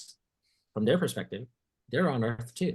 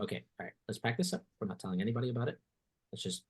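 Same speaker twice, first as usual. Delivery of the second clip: quick, softer hush; hushed cover-up; 6 dB quieter, much faster than usual. Retold or imitated. Experimenter urging colleague to keep quiet, quick hush. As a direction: rush it out under your breath to hide the find.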